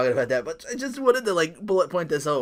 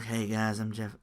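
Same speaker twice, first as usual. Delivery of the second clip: lower, softer mellow greeting; laid-back drawl; 4 semitones lower, 5 dB quieter, slower than usual. Retold or imitated. Mimicking Jeff Hardy's introduction, mellow laid-back greeting. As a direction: greet them lazy and unbothered. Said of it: "make him sound like Matthew McConaughey".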